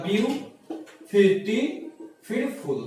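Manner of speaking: ब्यू, then टी, then फुल, each part set apart with pauses; ब्यू - टी - फुल spelled out by its syllables. Shown as a demonstration. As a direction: break the word ब्यूटीफुल into ब्यू, टी, फुल. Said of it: "कितने बार में बोला जाता है".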